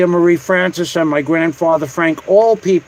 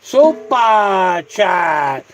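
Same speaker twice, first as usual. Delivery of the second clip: drawn-out announcement; much slower than usual. Real, not acted. Announcing super chat drawn out.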